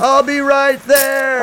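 high, loud call from a distance; calling from far off. Pretend. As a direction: shout up from below the cliffs. Guest calling from the cliffs.

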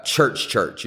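slow, doubled church church said as if in quotes; slow ironic church church; air-quote church. Shown as a demonstration. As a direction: stretch church church out, mocking the word. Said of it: "in quotes".

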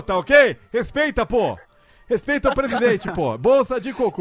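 lightly voiced Bolsonaro impersonation; a hint of Bolsonaro's brusque tone; Bolsonaro impression. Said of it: "pra você poder fazer o Bolsonaro".

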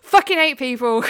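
laughing. Real, not acted. Laughing outburst about people.

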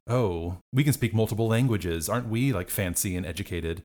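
mildly mock-snooty party guest; snobby mock posh. Partygoer mocking snobs who show off languages, mild snooty voice. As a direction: send up fancy snobs lightly.

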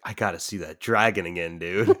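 low-pitched character impression; Golic. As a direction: do a low, lightly voiced dude impression. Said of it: "that's how he talked, right?".

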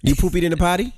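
potty training praise. Real, not acted. Praising child's potty use.

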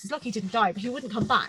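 breezy and cheerful about a near miss; light, upbeat tone about something scary; chipper. Real, not acted. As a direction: say it brightly, as if it were nothing. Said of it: "That was said in such a chipper".

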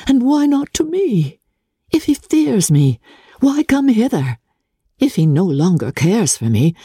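musing aloud, half cross, half wistful; lightly voiced Elizabeth, vexed. A narrator's reading.

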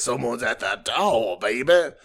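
slow, smooth radio DJ drawl; Wolfman Jack voice. Retold or imitated. Joking to co-host, slow late-night DJ impression. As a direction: lean into each word like a late-night DJ. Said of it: "Like Wolfman Jack calling a match".

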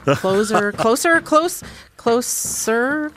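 breathless excited panting; hyperventilating. Real, not acted. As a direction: gasp the words out fast. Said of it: "that hyperventilating".

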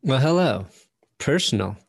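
loud, punchy ad read voice. Acted. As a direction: sell it like an energetic ad. Reads a sponsor ad.

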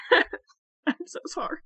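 high, slow mock sobbing; super emotional. Imagining herself breaking down before patients, mock crying. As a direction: fake a tearful apology. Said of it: "super emotional about it".

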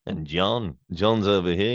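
nasal singer's voice; a famous singer's voice. Acted. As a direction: put it in the nose like the singer. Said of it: "a little bit more on the nasal".

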